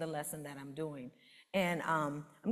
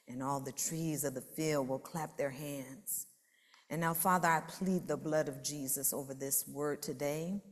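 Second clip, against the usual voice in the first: fervent prayer. Acted. Pastor praying over the church, solemn and fervent. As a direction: pray it out over the people.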